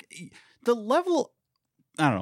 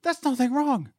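much higher and pushing hard; impassioned rant; 8 semitones higher than usual. Real, not acted. To his co-host, defending unmarried people with passion. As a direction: insist it with rising passion. Heated rant about marriage expectations.

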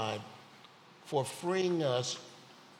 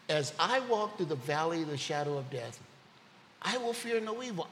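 joyful recitation; 2 semitones higher than usual. Shown as a demonstration. Preacher rejoicing over the psalm to his congregation, excited. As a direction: proclaim it like you finally understand it. Psalm repeated after grasping it.

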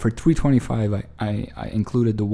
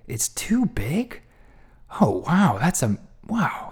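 completely shocked; 5 semitones higher, slower than usual. Retold or imitated. Clerk told the screw is too big, shocked. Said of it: "completely shocked".

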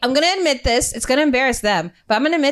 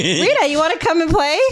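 lightly voiced luring friends, pitched higher; a hint of kids coaxing, higher voice; mock-innocent invitation; 5 semitones higher than usual. Friends luring her out to meet a dog, mock innocent.

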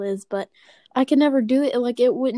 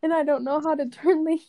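teeth chattering in the cold; shivering; 5 semitones higher, faster than usual. Real, not acted. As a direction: talk while freezing. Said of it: "I can hear you shiver".

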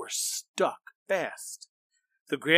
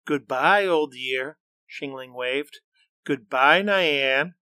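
loud bright calling goodbye; cheerful farewell; 6 dB louder than usual. Acted. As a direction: wave off the old year. Farewell call.

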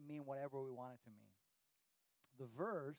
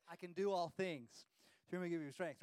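louder, pumped-up sports motto; hyped-up recitation; 4 dB louder than usual. Retold or imitated. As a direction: shout it like a pep chant. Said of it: "and he's like, like this".

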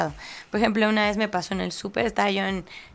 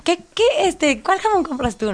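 nervous small talk; 7 semitones higher than usual. Retold or imitated. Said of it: "yo así de".

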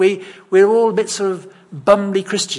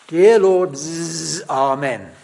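mock lazy prayer; much slower than usual. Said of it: "their prayer goes like this".

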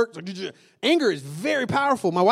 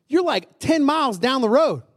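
self-scolding; 7 semitones higher, 4 dB louder than usual. Retold or imitated. Scolding himself in retold self-talk.

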